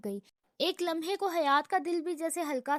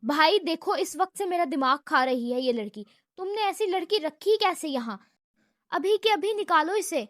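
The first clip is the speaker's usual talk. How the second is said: angry yell; 2 semitones higher, 5 dB louder than usual. Acted. Brother yells at his brother to fire the girl. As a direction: yell at him to throw her out. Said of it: "ابرار پھر سے چلایا".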